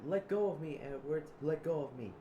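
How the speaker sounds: role-played protest while restrained; acted struggle. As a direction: shout to be released from a grip. Acting out Zip being restrained.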